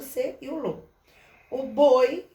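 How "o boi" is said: boi said much louder; loud teaching example word; example word called out. Shown as a demonstration. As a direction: announce boi as the next example. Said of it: "ele bota o oi".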